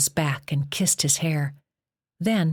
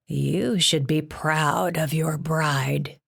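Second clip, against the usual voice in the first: excited; slower than usual. A narrator's reading. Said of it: "said with excitement".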